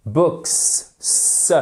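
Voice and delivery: "Books, S" with a long hissed unvoiced s; "Books" ending in a sharp voiceless s; final S sound. Shown as a demonstration. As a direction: hold the s at the end of "Books" and repeat it alone. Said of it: "c'est un S".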